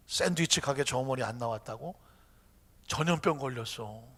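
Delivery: low, gentle reassurance; calm, smiling God. Acted. God answering the complaining believer, calm and kindly. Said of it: "하나님이 가만히 웃으면서 말합니다".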